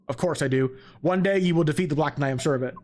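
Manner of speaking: low, earnest dialogue read; solemn game character. Acted. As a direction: read it as a steady, assured mentor. Reads game character's lines.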